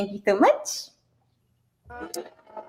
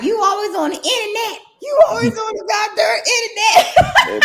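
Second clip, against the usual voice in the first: higher, nagging complaint; nagging wife; 11 semitones higher, faster than usual. Retold or imitated. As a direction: nag him about the internet. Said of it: "Lynette was like".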